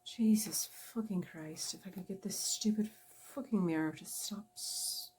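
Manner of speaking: frustrated cursing with an Irish lilt; muttered Irish-accented swearing. Real, not acted. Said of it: "an old Irish drunk man when I".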